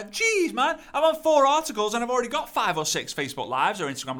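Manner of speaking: getting excited by the finds. Real, not acted. Excited finding more articles.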